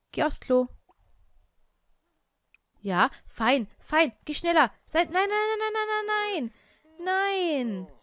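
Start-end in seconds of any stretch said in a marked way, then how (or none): 4.9-7.9 very high, drawn-out panicked nos; desperate pleading. Real, not acted. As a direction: beg it not to happen. Sim dying, desperate. (verzweifelt hohes Flehen)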